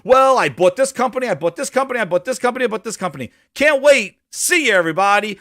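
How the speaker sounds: mock smug exec. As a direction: parody a gloating boss on stage. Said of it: "this fucker going on stage going".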